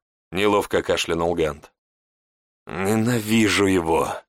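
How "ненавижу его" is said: hissing. Acted. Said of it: "прошипел я".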